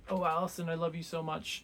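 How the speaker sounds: hammed-up swooning admirer; lovesick suitor. Absalom at the window, swooning over Allison.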